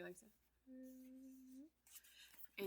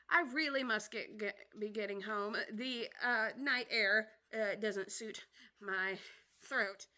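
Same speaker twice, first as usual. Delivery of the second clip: put-on fussy old magpie; 7 dB louder, slower than usual. Old magpie excuses itself.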